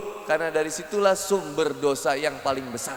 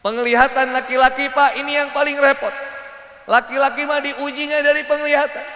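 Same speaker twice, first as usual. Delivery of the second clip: high, carrying sermon voice; emphatic preaching; 8 semitones higher, 5 dB louder than usual. Acted. Preacher telling men about their trial of sight, emphatic. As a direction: proclaim it to the hall.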